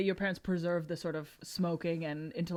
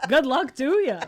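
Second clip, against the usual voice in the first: mock dismissive brush-off; 6 semitones higher, 10 dB louder than usual. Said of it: "I'll be like".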